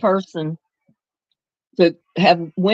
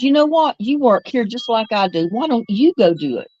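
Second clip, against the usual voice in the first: retold telling-off; 4 semitones higher than usual. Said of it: "I set one of 'em straight".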